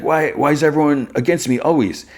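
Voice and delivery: high, plaintive whine; mock-wounded complaint; acted despairing protest. Timid guy protests being targeted.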